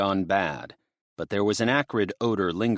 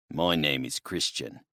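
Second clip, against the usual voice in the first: lower, softer big man's voice; a lightly voiced burly bushman; low and quiet, matter-of-fact; 4 semitones lower, 4 dB quieter than usual. Big man introduces himself.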